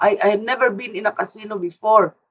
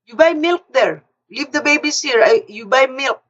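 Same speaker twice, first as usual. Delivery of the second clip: higher, brisk imitation of the husband; a hint of a bossy husband, voice pitched up; husband giving orders; 4 semitones higher than usual. Husband gives orders about milk.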